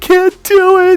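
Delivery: mock crying in a child's voice. Retelling how a kid answered his coach, imitating a crying kid. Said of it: "And the kid's crying".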